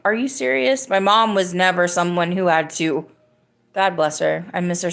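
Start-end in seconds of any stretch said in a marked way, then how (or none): 0.1-0.9 facetious. Retold or imitated. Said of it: "being facetious".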